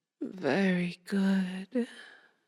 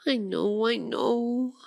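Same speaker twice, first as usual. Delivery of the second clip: higher-pitched, doting coo; cooing sympathy; 4 semitones higher than usual. Acted. Vampire soothes her tearful pet after feeding, cooing. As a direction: fuss over a poor hurt pet.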